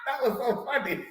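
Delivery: talks through high giggles; can barely get the words out for laughing. Real, not acted. Laughing while retelling mother's words.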